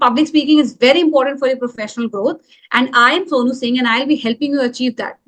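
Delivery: brisk, assured self-introduction; confident. Shown as a demonstration. Coach showing students the improved delivery, confident. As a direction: project it briskly with conviction. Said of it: "my voice sounds much more confident".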